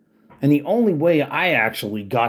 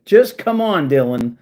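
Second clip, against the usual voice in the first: louder exasperated plea; 5 dB louder than usual. Real, not acted. Ranting at troll Dylan, loud exasperated plea. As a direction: throw your hands up and shout it.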